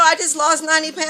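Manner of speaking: high, loud indignant squeal; sassy comeback. Pretend. Vlogger's imagined comeback to a stranger, high outraged squeal. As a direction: fire it back, laughing in disbelief. Imagined retort to rude question.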